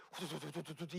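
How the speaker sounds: quick rattling noise; imitated rapid handwork. Shown as a demonstration. Worker's hands flying through the task, imitated rattle. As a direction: patter it out in a fast run. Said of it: "이게 다 돼요".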